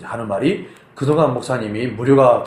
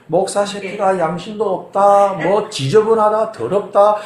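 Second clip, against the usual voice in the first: mock tirade, each insult thrown out higher; retold cursing; 5 semitones higher than usual. Irate caller abusing the pastor over money, retold cursing. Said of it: "나한테 막 욕을 막 퍼부으면서".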